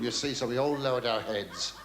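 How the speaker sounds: usual speaking voice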